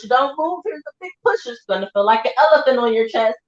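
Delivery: high, sing-song coaching voice, pitched well up; imitating the nurses. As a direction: mimic the nurses cheering her through the push. Nurses coaching during delivery.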